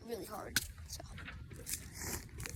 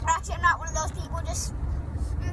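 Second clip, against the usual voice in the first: high, strained, puckered; pained by the sour; sour face; 7 semitones higher than usual. Real, not acted. Sour candy agony.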